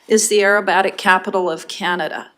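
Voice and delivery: muffled voice, like through a hand; talking through a covered mouth. Real, not acted. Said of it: "sorry, I know I'm muffled".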